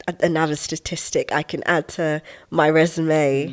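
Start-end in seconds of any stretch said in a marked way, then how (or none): 2.7-3.5 resume said the American way, like "rez-oo-may"; resume with an American accent; American pronunciation. Real, not acted. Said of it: "I said resume like I'm American".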